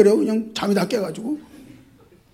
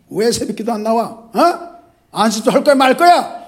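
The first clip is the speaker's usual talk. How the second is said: mild scolding; 4 semitones higher, 5 dB louder than usual. Shown as a demonstration. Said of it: "이렇게 혼낼 수 있어야".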